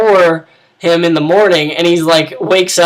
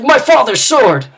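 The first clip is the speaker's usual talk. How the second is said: a higher, hammed-up wail over the lost sword; anguished wail; 8 semitones higher than usual. Bumbling knight wails as she tosses his sword. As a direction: cry out high in mock despair. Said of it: "he's like".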